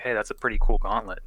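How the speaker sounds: fast, offhand compliment played cool; casual. Father Tane leaving, playing off the compliment casually, fast. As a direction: throw it away like it's nothing. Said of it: "he kinda plays it off casual".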